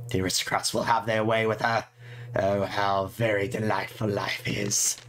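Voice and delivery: gleeful mock-sweet list of revenges; lightly voiced spiteful girl. The diary girl plotting against her tormentors, lightly spiteful. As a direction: savour each nasty wish lightly.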